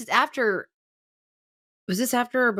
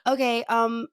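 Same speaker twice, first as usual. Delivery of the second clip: flustered client; 4 semitones higher than usual. Retold or imitated. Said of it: "She was like".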